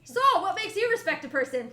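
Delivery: high, loud, squeaky little creature. Acted. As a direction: ask it in a tiny squeaky voice. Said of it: "squeaky voice".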